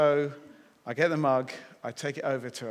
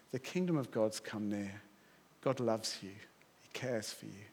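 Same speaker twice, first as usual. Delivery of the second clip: lower, softer, tender delivery; gentle assurance; 5 semitones lower, 8 dB quieter than usual. Shown as a demonstration. Preacher shows what to say to lost people, gentle assurance. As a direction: offer it quietly as comfort.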